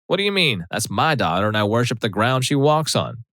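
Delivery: high, indignant Southern mother; shocked Southern mother, high and indignant. Retold or imitated. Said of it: "M, gasp".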